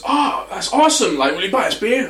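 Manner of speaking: high, swooping mock-Texan enthusiasm; young Texan rancher. Texan spring breaker cadging beer from Englishman, excited dude. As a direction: gush like an excitable Texan lad. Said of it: "genuinely ranchers from Texas".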